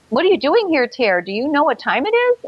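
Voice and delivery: lightly voiced stepfather; annoyed stepfather. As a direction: grumble like a woken stepfather. Stepfather woken at 4 am.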